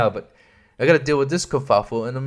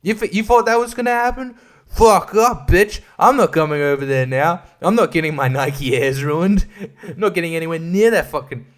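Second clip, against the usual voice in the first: 1 mock rant; 3 semitones higher than usual. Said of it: "I just stand there and be like".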